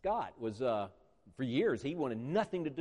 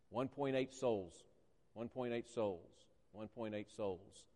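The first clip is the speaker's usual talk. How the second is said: each repeat softer, slower, dying away; fading repetition; 3 semitones lower, 7 dB quieter, slower than usual. Acted. Preacher lets the count of souls fade to a hush. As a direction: let it fade to almost nothing.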